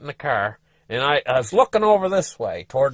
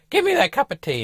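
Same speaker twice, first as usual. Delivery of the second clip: lightly pitched-up wife voice; relieved wife; 12 semitones higher than usual. Retold or imitated. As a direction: ask for the tea contentedly. Wife asking for tea.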